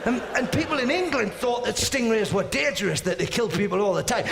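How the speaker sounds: normal talking voice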